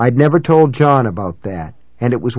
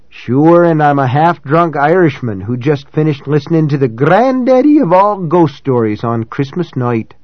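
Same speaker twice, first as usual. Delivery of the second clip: louder, higher Boston Irish brogue; 4 semitones higher, 3 dB louder than usual. Acted. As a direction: lay the Boston brogue on thick. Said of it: "he juiced his ordinarily faint Boston brogue".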